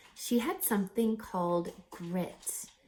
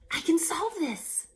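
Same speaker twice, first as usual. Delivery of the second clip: higher, lightly voiced confident young woman; confident Ray; 9 semitones higher than usual. Ray telling the Navy she can solve this, confident. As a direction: say it like she's sure she can fix it. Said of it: "She took a deep breath".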